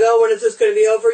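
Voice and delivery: quick mock-impatient moan; impatient attitude.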